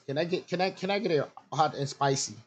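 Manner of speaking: put-on American accent for the order. Ordering at a drive-thru, in an American accent. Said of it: "pull out my American accent".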